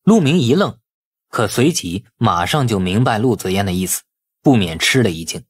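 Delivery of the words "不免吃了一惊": ordinary delivery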